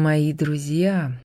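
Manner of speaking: медленно и задумчиво; протяни слова в раздумье. Acted. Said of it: "задумчиво произнёс он".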